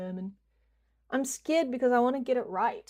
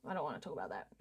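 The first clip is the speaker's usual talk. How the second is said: much quieter, lower throwaway line; muttering low; 9 semitones lower, 14 dB quieter, much faster than usual. Real, not acted. Streamer dodging a topic with chat, low mutter. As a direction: grumble it under your breath.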